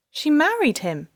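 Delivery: high, stunned disbelief; shocked gasp. A narrator's reading. Rebecca stunned to hear her ex married the donor. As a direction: blurt it out in shock. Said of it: "Rebecca gasped".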